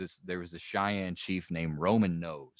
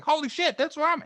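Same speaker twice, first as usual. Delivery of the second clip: high, louder mock-alarmed cry; mock shock; 6 dB louder than usual. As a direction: squeal like a startled driver. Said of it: "I'm like".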